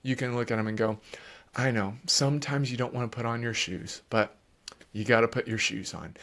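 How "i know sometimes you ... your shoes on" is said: calm parent reply. Shown as a demonstration. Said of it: "if you will stay calm".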